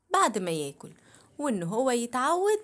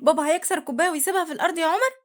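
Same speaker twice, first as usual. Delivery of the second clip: incredulous; 4 semitones higher, much faster than usual. Acted. Mother incredulous, quick.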